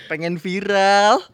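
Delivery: slow drawn-out tagline call; announcer tagline. Shown as a demonstration. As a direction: announce it slowly like a jingle. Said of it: "Kita mulai ya".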